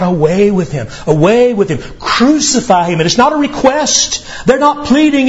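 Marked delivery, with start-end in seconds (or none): 0.0-3.0 crowd crying out. Retold or imitated. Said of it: "they cry out".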